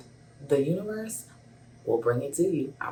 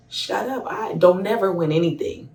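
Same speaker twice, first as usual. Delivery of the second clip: overjoyed; 4 semitones higher, 4 dB louder than usual. Retold or imitated. Overjoyed at winning.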